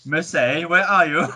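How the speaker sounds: English voice for being understood; put-on English accent. Asked to talk English on the phone, English accent. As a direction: imitate himself switching to an English accent. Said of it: "talk in your English voice".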